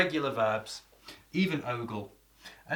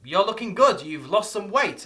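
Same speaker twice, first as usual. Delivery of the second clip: higher, louder admiring compliment; impressed viewer; 7 semitones higher, 7 dB louder than usual. Pretend. Viewer admiring the teacher's weight loss, higher and louder. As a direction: gush over the teacher's new look. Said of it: "You may be thinking to yourself".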